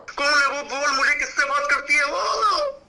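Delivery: slow, drawn-out furious shout; angry shout. Real, not acted. Jealous boyfriend to agent on phone, slow angry shout. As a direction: yell it at the call centre agent, demanding the name. Jealous caller demands rival's name.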